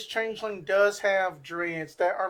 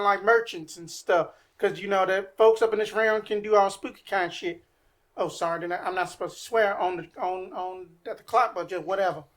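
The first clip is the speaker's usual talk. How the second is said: put-on thick Cajun accent. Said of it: "Thick Cajun, deep Southern accent".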